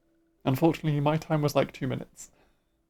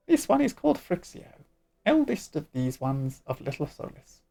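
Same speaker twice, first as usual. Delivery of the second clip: squeaky sylph voice. Acted. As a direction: play a tiny sing-song forest spirit. Elder sylph voice.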